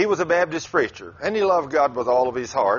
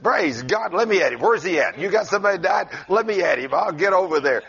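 eager bravado; 2 semitones higher than usual. Pretend. Acts out an eager, bold healer.

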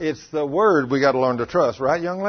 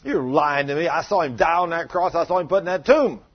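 doubting scoff; 3 semitones higher, 4 dB louder than usual. Acted. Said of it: "He said".

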